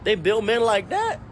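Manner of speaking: granddad amazed. Retold or imitated. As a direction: gasp it out like a stunned granddad. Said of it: "And he was saying".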